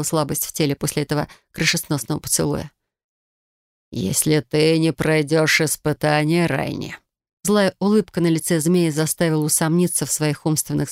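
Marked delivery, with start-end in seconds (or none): 3.9-7.0 commanding snake lord. Acted. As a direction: lay down the law like a serpent king. Snake lord threatens the heroine.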